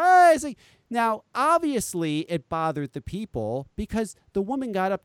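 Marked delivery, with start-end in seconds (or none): 0.0-0.3 a sudden loud high "Hey!"; mock kid yell. Imitating the dancing kids with a loud yell.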